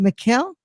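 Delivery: Mikel said with a hard K in place of CH; "Mikel" as mee-KEL, questioning; mispronounced name. Real, not acted. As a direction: tentatively ask "Mikel", with a K sound and rising pitch. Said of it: "not Mikel, dude".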